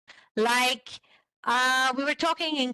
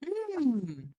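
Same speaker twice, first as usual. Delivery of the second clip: demo hum. Shown as a demonstration. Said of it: "If you hear it".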